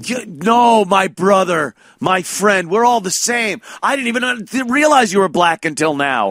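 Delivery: high, effusive and over-earnest; mock white savior. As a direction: gush brotherhood at a stranger. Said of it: "That's his fantasy".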